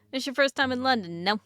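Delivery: taxi driver. Acted. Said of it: "I don't know why the taxi driver became".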